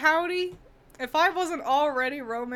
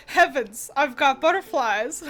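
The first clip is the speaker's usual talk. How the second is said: lovestruck gushing, louder; swooning; 2 semitones higher, 6 dB louder than usual. Retold or imitated. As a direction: gush like a smitten heroine. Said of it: "I was like".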